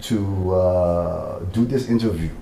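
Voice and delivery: light Liberian English accent, slow and careful. Shown as a demonstration. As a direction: speak slowly in a mild Liberian accent. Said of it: "interview in the Liberian accent".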